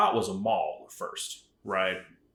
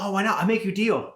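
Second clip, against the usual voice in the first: higher and louder mock Asian saleswoman; mock Asian accent; 10 semitones higher, 5 dB louder than usual. Vendor lady offering a deal, louder mock Asian accent. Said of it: "excuse my terrible accent".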